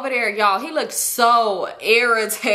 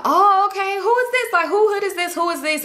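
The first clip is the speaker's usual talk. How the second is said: way higher, mock-surprised friend's voice; mock high girly voice; 9 semitones higher than usual. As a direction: squeal it out like a nosy friend, much higher. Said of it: "she like".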